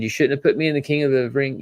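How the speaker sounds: half-acted blame, first wording; quoting Bron, first try. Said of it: "And Bron said".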